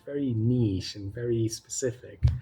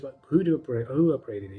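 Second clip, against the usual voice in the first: louder, pressing question; indignant demand; 3 semitones higher, 5 dB louder than usual. Retold or imitated. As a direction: demand who is responsible. Disputing an unwanted ticket upgrade.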